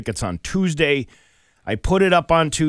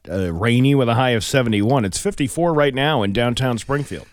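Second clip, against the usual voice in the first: weather report; 5 dB louder than usual. Acted. Weather read.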